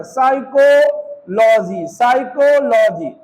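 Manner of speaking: साइकोलॉजी said slowly with no p, starting on s; slow, careful साइकोलॉजी with the p left silent. Shown as a demonstration. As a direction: say साइकोलॉजी as "saikolaji", dropping the p. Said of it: "पी को नहीं पढ़ रहे हैं".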